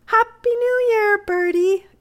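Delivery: put-on a young girl calling out her happy welcome; high girlish excited cry of greeting. A narrator's reading. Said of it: "cried Amy".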